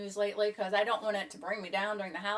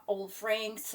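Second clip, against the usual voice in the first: ordinary talk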